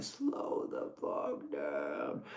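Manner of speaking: deep, slow growl of a demon lion. Retold or imitated. Warning a speeding truck driver in a deep demon voice. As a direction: roar it low and slow like a lion. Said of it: "I said it in my demon voice".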